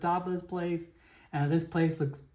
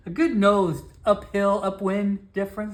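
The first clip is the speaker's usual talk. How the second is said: laughing; 4 semitones higher, 6 dB louder than usual. Real, not acted.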